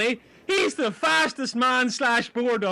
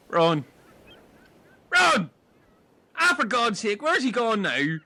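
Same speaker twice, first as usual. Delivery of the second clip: calling out; 2 semitones lower than usual. Acted. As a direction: call out across the island. Calling for missing Ron.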